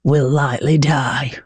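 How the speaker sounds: low, slow mock Yorkshire line; imitated Yorkshire accent. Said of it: "the Yorkshire".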